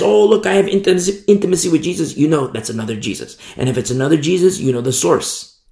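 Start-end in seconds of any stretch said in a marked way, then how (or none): 0.0-2.2 fast, showy mock claim. Fast mock of a boasting false believer. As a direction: breeze through it like a boast. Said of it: "somebody says".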